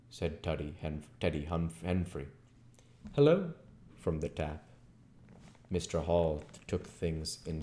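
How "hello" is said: loud call. Acted. Second call from the tap.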